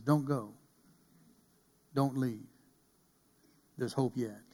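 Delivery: soft, low, spaced-out pleading; the still small voice, hushed and reassuring; gentle near-whisper. Acted. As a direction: speak softly with long pauses between phrases. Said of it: "that speaks to you in a whisper".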